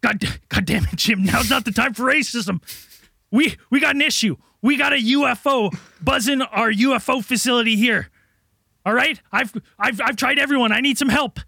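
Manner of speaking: lightly voiced frantic government official, exasperated; barking orders at Jim in a lightly played crisis voice; harried official. Frazzled agency chief pleading with Jim for help, lightly hammed. Improvised sketch, official character.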